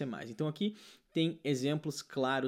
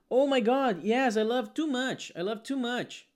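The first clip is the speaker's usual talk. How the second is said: mock excited learner; 6 semitones higher, much slower than usual. Teacher imitates a Brazilian gushing with the wrong word, higher. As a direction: gush like an eager student. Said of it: "muitos brasileiros vão falar assim".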